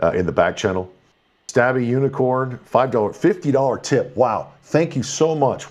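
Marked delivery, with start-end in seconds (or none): 1.5-5.7 excited thanks. Real, not acted. Reacting to a big fifty-dollar tip.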